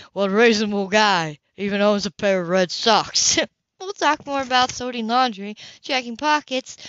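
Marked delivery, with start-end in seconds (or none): 3.8-6.8 put-on young woman's voice. Grace voiced.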